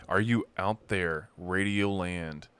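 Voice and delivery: drawn-out radio DJ call to listeners; slow radio host call. Pretend. Host on a stream calls out to his audience like a slow radio DJ. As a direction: stretch it out like a late-night radio host.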